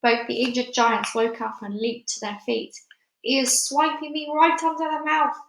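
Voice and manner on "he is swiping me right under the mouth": higher, moderately raised outraged cry; giant's yell. A narrator's reading. Giant struck awake by another giant, yelling. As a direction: complain in a raised, high voice. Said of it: "yelled the meat dripper".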